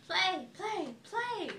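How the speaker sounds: very high loud gosling; high, eager baby goose; excited. A narrator's reading. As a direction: bounce it out high. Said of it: "cried the excited baby goose".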